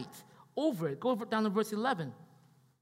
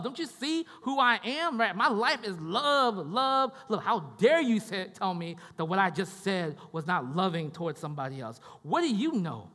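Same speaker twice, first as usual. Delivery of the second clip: offended wife; 5 dB louder than usual. Pretend. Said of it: "Can imagine the wife saying this".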